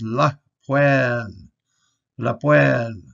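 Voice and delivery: la poêle with a nasal pwan ending; French-style vowel. Shown as a demonstration. Teacher modelling the word for stove. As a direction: say la poêle, stress poêle. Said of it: "you hear that".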